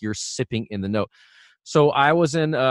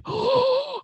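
harsh, high scraping inhale; scraping gasp. Shown as a demonstration. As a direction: gasp in noisily to show what not to do. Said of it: "you don't wanna scrape the sound like".

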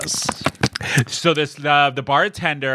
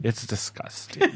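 laughing; 3 semitones lower, 6 dB quieter than usual. Real, not acted. Laughing at tan.

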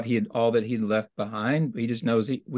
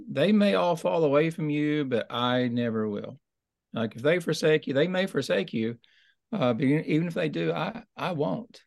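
higher-pitched retold boast; boastful; 5 semitones higher than usual. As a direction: quote a confident vow, pitched up. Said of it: "Peter had just recently boasted".

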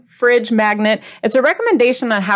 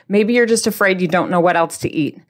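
ordinary delivery

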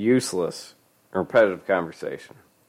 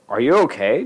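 urgent concern; 5 semitones higher, 3 dB louder than usual. Acted. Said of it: "Johnny repeated".

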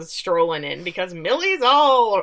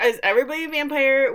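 mock bafflement; 8 semitones higher, 5 dB louder, faster than usual. Own baffled reaction retold.

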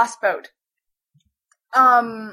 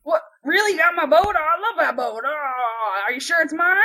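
lightly voiced dopey guy, excited; amazed boat owner; 3 semitones higher than usual. Boat owner told his boat is found, mildly dopey amazement.

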